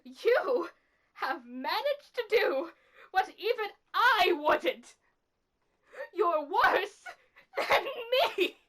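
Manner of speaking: forceful, emphatic condemnation; bitter accusation. Acted. Killer condemning someone as worse, bitter forceful accusation. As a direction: drive the accusation home in separate punches.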